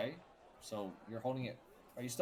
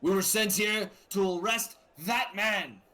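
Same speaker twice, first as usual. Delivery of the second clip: slow, higher, louder guard voice; 8 semitones higher, 7 dB louder, slower than usual. Acted. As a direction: announce it like a stern town guard. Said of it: "the guards simply respond with".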